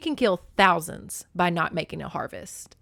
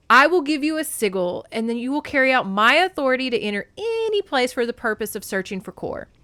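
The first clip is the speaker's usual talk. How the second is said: raised, formal royal pronouncement; authoritative Zeus; 5 semitones higher, 6 dB louder than usual. A narrator's reading. Zeus grants Demeter authority to search, commanding. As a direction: proclaim it as king of gods.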